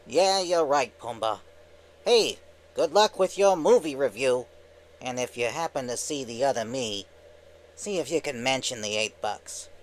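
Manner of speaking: lightly voiced cartoon wise guy; Timon. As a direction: say goodbye as a cheeky cartoon sidekick. Skit voicing Timon.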